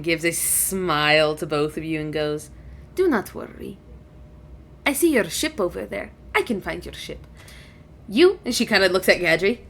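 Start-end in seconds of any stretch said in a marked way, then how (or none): 2.9-8.4 lightly voiced dragon, lilting then settling; dragon, reassuring. Dragon reassures the visitors, mildly kindly. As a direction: gently reassure as a stately dragon.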